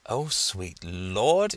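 very slow, stunned "Oh, sweet Lord"; stunned gasp. Acted. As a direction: let it fall out of a dropped jaw. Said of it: "Professor Dint's jaw dropped".

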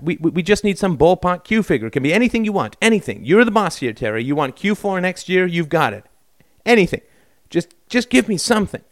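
pushy pleading. A narrator's reading. Bill pleading, pushing hard.

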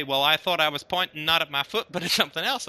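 a hint of folksy Texan; Texan accent. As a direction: say it like a North Texan. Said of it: "you do a good Texan accent there".

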